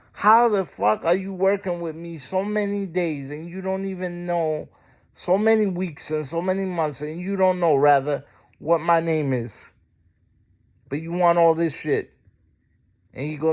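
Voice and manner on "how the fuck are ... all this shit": angry rant. Retold or imitated. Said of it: "I didn't say it like that".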